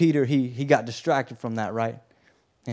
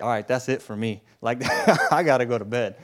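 laughing quit; 2 semitones lower than usual. Retold or imitated. Bartholomew quits, laughing.

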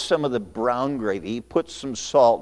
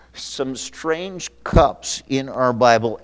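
slow dictation for note-takers; slower than usual. Shown as a demonstration. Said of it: "for you that take notes".

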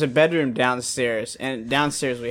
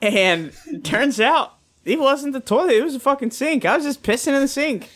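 laughing; 12 semitones higher, 3 dB louder than usual. Real, not acted. Laughing through the punchline.

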